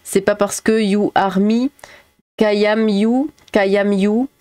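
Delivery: lightly put-on French accent in English; a singer's French-accented English. Quoting a singer's song after teasing about English accent, French-accented English. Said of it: "J'ai l'impression d'entendre Renaud".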